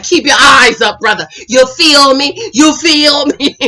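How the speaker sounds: drawn-out, hammed-up challenge to a rival; Hollywood, mock emotional. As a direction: imitate a worked-up man, stretching the words. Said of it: "Hollywood is getting all emotional".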